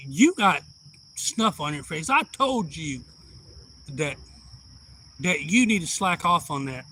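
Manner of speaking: mock telling-off, punched loud at the start; imitated scolding. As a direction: imitate a son scolding his mother. Son scolds his old mother.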